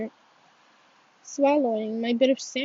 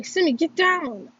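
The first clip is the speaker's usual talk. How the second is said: crying out; 4 semitones higher than usual. Acted. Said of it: "I cry".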